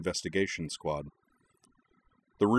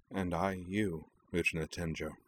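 slightly hoarse; 6 dB quieter than usual. Acted. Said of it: "slightly hoarsely".

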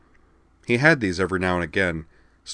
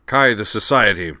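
amiably; 3 semitones higher, 6 dB louder than usual. Acted. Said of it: "Kralg replied amiably".

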